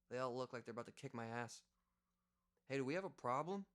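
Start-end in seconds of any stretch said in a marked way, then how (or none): 2.7-3.7 gruff, higher challenge from a tough guy; big Italian guy. Retold or imitated. Big guy confronting the narrator at the bar, lightly voiced tough-guy challenge. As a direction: square up like a bouncer-sized bruiser. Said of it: "Big Italian guy".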